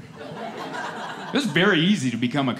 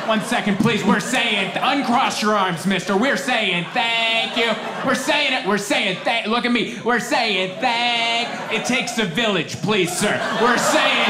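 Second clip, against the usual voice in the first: put-on high, sing-song parent voice prompting a child; mock mom coaxing a kid to say thanks; 6 semitones higher, slower than usual. Parent coaxing a stubborn child in high sing-song.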